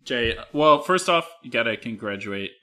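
talking with a sore wisdom tooth, jaw held open; words slurred, can't close mouth; mouth half open. Real, not acted. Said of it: "so I can't close my mouth all the way".

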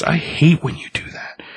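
a quick whispered grumble; whispered complaint. Retold or imitated. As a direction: hush it, half creeped out. Marcel complains about creepy face.

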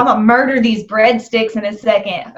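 laughing through a joke. Real, not acted. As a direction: joke while cracking up. Jokes while laughing.

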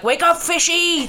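put-on high, slow shrill kid voice; Darla from Finding Nemo. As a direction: squeal it like a bratty kid. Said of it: "who's like".

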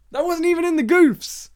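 loud, high-pitched outburst; comic indignation. Real, not acted. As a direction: protest it as if personally outraged. Worked up over unnoticed film goof.

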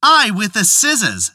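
high, stubborn, angry reply; angry wife. Acted. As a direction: fling it back at him in anger. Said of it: "said the wife in anger".

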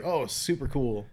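slow, drawn-out mock enthusiasm; sarcastic. Dad hearing his son's bone has broken off, sarcastic. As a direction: drag it out, unimpressed. Sarcastic reaction to bad fracture news.

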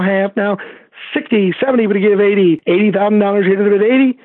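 rapid auctioneer chant. Shown as a demonstration. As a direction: rattle off bids like an auctioneer. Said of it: "ziggity auctioneer talk from you".

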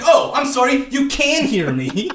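high, loud fake apology; mock-apologetic sarcasm. Him answering the upset mom in line, sarcastic mock apology. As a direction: feign surprise, drawing out the last phrase. Sarcastic comeback in retold quarrel.

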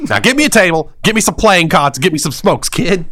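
mock tough-guy doll; bossy doll. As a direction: order the kid around like a mob boss doll. Doll bossing boy around.

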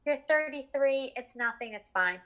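dismissive. Retold or imitated. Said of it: "one of those people that was like".

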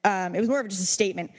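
ordinary talk, nothing marked

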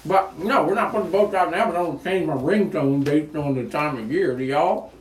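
talking with a mouth full; words round a bite of cracker. Real, not acted. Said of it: "I had a ghost pepper, uh, jelly, uh, cracker in my mouth".

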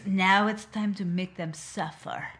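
slow, ominous vow; mock villain threat. Co-host voicing Phoebe vowing revenge, slow and ominous. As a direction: drag out suffer like a movie villain.

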